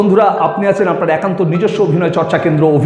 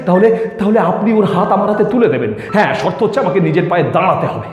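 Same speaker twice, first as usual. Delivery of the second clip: halting, lightly acted plea to elders; earnest suitor pleading. Young man asks her parents for Sumi, earnest and pleading. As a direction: plead your case politely, stumbling over words.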